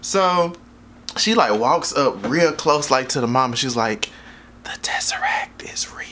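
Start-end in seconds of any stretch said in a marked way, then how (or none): 4.6-6.0 imitated eerie whisper; hushed, breath-only revelation, acted out; mysterious whisper. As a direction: lean in close and whisper a secret. Walks up close to reveal a secret.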